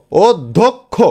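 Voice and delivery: অধ্যক্ষ in three beats, "od... dhok... kho"; piece by piece. Shown as a demonstration. Teacher assembles the word, অধ্যক্ষ as three separated syllables. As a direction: separate each syllable of অধ্যক্ষ, round o throughout. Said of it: "টুকরো টুকরো করে উচ্চারণ".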